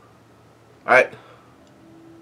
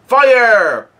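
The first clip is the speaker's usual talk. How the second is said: high, drawn-out mock shout; retold yell; 8 semitones higher, 4 dB louder than usual. Reader acting out somebody's order to fire, yelled. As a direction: call it out like an order to shoot. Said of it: "somebody yells out".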